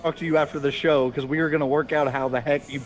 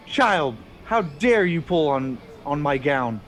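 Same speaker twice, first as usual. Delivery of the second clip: indignant scolding nun; 3 dB louder than usual. Acted. Nun to child who ripped her gown, indignant scolding. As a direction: scold sharply, with mild outrage.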